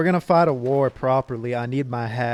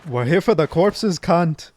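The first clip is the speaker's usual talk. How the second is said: put-on Australian accent; 4 semitones higher, 5 dB louder than usual. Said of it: "all Rangers are Australian".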